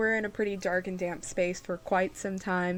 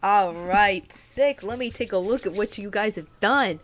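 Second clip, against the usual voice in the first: gnome shopkeeper Wartor; 2 semitones higher, 6 dB louder than usual. Acted.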